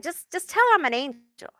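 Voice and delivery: lightly voiced spirit, a bit quick; a hint of a voiced spirit; spirit's voice. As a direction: relay a dead man's plea. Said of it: "I can't get his accent".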